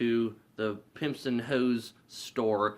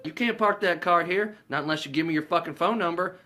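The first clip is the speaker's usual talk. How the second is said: high, pushy guard imitation; mock bossy guard; 7 semitones higher, 4 dB louder than usual. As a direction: act out an officious guard ordering drivers. Guard orders women away.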